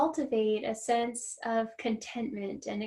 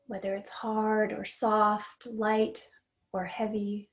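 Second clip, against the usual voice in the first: guided meditation. Real, not acted. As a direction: lead a mindful noticing exercise, unhurried and steady. Leads a grounding exercise.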